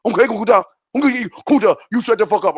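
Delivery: emphatic, deliberate order; commanding rebuke. Real, not acted. Host silencing an interrupting caller, emphatic rebuke. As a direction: shut the caller down firmly.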